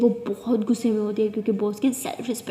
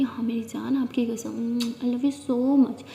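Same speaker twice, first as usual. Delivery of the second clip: tender whisper; much slower than usual. Acted. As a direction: whisper your love to calm her. Aaliya reassuring Amaya tenderly. (प्यार भरी धीमी फुसफुसाहट)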